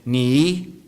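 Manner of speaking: "Ni" dipping down, then rising up; "Ni" with a falling-rising Mandarin tone. Shown as a demonstration. Speaker teaching the audience Mandarin, "Ni" dipping then rising. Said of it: "Let's try it again".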